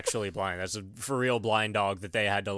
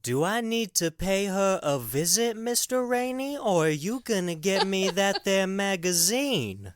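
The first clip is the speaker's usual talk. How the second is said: Shooter's threat; 8 semitones higher than usual. Retold or imitated. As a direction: menace him slowly about visiting his wife. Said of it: "and he says".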